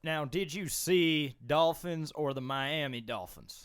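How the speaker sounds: put-on slow, drawn-out southern accent. Host teasing Wags about Florida trip, slow southern accent. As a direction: ask it slowly in a Southern accent. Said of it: "a southern accent felt right".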